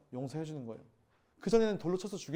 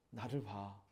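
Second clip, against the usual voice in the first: lower, softer gentle call; tender invitation; 9 semitones lower, 12 dB quieter, much slower than usual. Retold or imitated. The Lord to a tired believer, soft and tender. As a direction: draw them in softly.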